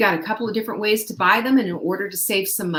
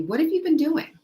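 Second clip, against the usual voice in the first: a higher, upbeat doctor's voice; pleased doctor, higher and bright; doctor praising; 6 semitones higher than usual. Retold or imitated. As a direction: cheer the patient on like a pleased doctor. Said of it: "having your doctor say to you".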